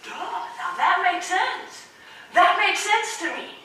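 mock duh. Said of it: "I went".

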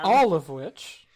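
bored flat delivery; utterly uninterested drone; disinterested monotone. Acted. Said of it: "in his usual disinterested monotone".

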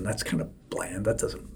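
inner scoff. Retold or imitated. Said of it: "initially in my mind kind of scoffed".

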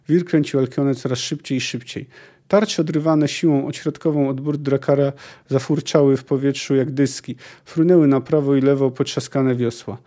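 dramatic read-aloud of a sea tale; story narration. A narrator's reading. Sailor recounts a storm to his jarl, story narration. Reads a long quote from a novel.

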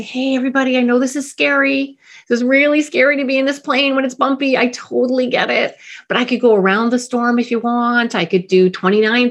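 over-explain gently, like a pilot placating passengers; over-sympathetic captain. Acted. Captain placating passengers on a bumpy flight, over-sympathetic. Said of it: "captain decides he's gonna wander down the aisle and say".

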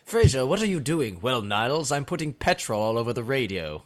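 playacted British sitcom dialogue; hammed-up fake British banter; mock British accent. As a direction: trade lines as two cartoon Brits. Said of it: "your accents are decent".

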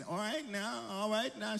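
lightly mimicked Eastern European or Austrian accent; foreign accent. Physical therapist coaxing a wincing patient, in a mock foreign accent. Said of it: "With an accent".

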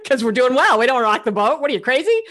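a hint of mock disbelief; mock incredulous. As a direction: play the scoffing partner, loud and amused. Mocking couples avoiding talk.

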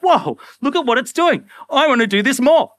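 amazed at what your giving does; delighted discovery. Acted. Delighted giver voiced.

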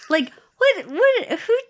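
high-pitched, baffled disbelief; incredulous. Real, not acted. Amazed at a character's odd remark.

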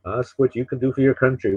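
lightly imitated New England accent; JFK. Host demonstrating the original famous line, mild New England accent. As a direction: quote the famous speech with New England vowels. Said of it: "New England accent there".

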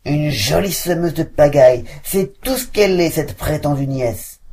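loud, bitter rant; storming. Acted. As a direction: fume about the niece. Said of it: "tempêta Baba Yaga".

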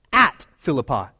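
at in at Philippi pressed hard and slowed; stress on at. Shown as a demonstration. Preacher pointing out Paul's wording to the congregation, stressing at. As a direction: lean on at before Philippi. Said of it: "Paul carefully calls them the saints".

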